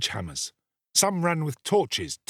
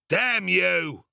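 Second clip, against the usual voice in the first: desperate curse; 7 semitones higher than usual. Acted. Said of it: "cried the desperate ruffian".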